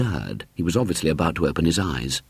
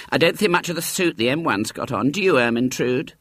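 gossiping mother voice; 7 semitones higher than usual. A narrator's reading. Mother judging the models.

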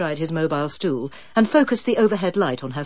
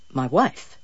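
puzzled; 4 semitones lower than usual. Acted. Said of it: "seemed puzzled".

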